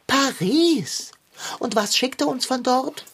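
empört „Paris“ und „Kaugummi“ im Wechsel höher ausgerufen; gekränkte Fassungslosigkeit, Wort für Wort ausgespielt; aufgebracht. Acted. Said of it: "ich bin ganz aufgebracht vor Enttäuschung". (Kater, enttäuscht über das Geschenk aus Paris, ruft empört)

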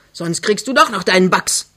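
cross, emphatic threat; scolding. Acted. Mother threatens her cheeky daughter, scolding. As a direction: warn her with a mild threat. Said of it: "schilt die Alte".

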